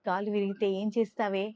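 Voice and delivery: half-acted loud scolding from grandmother; scolding loudly. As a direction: retell the grandma's sharp telling-off. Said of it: "అంటూ గట్టిగా తిట్టింది".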